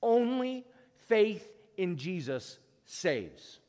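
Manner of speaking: a preacher hammering the one word that matters; stress on ONLY. Acted. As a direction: hit "Only" hard and let the rest fall slowly. Preacher drives home key line.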